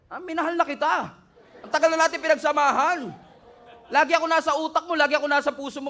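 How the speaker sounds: chuckling, mock-tender demon; laughing devil. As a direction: laugh as the devil who won't leave. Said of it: "tatawa pa yan eh".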